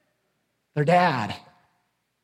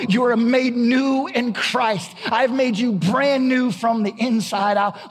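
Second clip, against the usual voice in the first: Jesus speaking; 4 semitones higher than usual. Retold or imitated. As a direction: proclaim it as Jesus, building to a slow declaration. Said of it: "a Jesus who comes to me and says".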